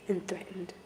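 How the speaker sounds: real near-tears, voice thinning to a whisper; fighting back tears. Real, not acted. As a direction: choke it out between long pauses, holding back crying. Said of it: "trying so hard not to cry".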